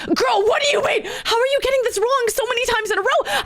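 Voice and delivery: high-pitched mock outburst; exasperated. Retold exasperation at dispatcher's repeated mistakes.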